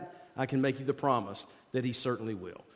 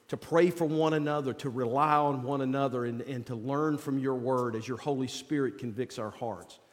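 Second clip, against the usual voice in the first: prayer voice. Acted. Leads an opening prayer.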